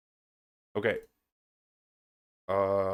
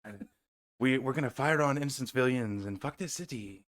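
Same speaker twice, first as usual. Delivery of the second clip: mock villain voice; 5 dB quieter than usual. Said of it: "I go from highs to lows".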